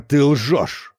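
громче, с ударом на «ты»; брось обвинение; гневно «ты лжёшь». A narrator's reading. (призрак в ярости: «ты лжёшь!»)

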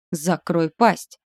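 slow snarl through the teeth; growling. A narrator's reading. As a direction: growl it like a cornered beast. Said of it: "прорычала".

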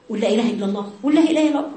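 pushy, rising nag at the dying; mock nagging chant; nagging repetition. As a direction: keep badgering, pitch climbing on the second. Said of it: "تزني بقى".

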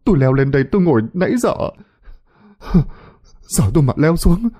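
high, frightened whine; scared high-pitched blubbering; tearful whimpering. A narrator's reading. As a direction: explain while close to crying. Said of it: "vẫn mếu máo mà nói".

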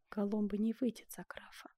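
hushed whispered concession. A narrator's reading. Duchess conceding to Benvenuto in a whisper. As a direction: breathe it so the king can't hear. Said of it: "прошептала герцогиня".

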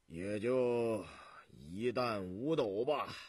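put-on slow, drawn-out old peasant answer; lightly voiced old farmer reckoning aloud.

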